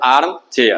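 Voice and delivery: आर्म, then चेयर apart; a small break after आर्म; split into two syllables. Shown as a demonstration. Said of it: "ये भी डाई syllable है".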